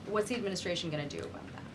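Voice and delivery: fast, rushed question; rapid-fire reporter question; quick question. Real, not acted. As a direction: hurry through it to keep it short. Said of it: "Very quickly on Tesla".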